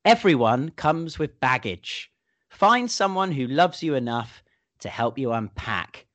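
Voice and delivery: slow, solemn quote reading. Shown as a demonstration. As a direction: read it like an inspiring quote. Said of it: "here we go".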